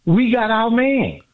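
slow, high, savoring every word; triumphant. Real, not acted. Caller gloating to the host about landing Giannis, slow and triumphant. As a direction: draw it out like a victory lap.

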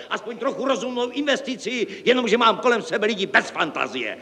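very high-pitched exasperated tirade; hysterical yelling. A narrator's reading. Director complains of unimaginative staff, hysterical yelling. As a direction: wail the complaint at top pitch. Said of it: "křičel".

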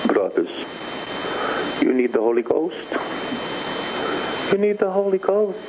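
normal talking voice

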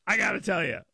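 normal talking voice

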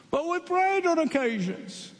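high, anxious begging; pleading foolish ones. Acted.

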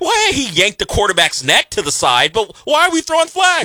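puzzled foreign viewer, pitched very high; baffled Madrid newcomer. Acted. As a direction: play an incredulous outsider, voice way up high. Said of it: "and he's like".

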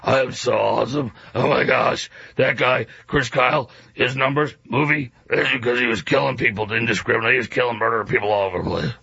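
a lightly put-on, self-satisfied mock voice; a hint of a mocking Graham Plattner. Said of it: "talk about how awesome you are in your gravelly voice".

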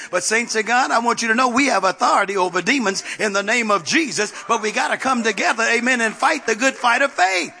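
exhortation climbing in pitch to the end; rally the saints to battle; preaching. Real, not acted. Preacher urging saints to fight demons together, preaching.

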